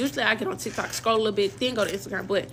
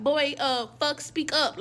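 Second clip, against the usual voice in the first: calling out; 5 semitones higher, slower than usual. Retold or imitated. Demanding he answer the phone.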